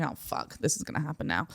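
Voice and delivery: very soft resigned aside; hushed 'here we go'; muttered dread, retold. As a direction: mutter it to yourself under your breath. Silent dread while waiting in line.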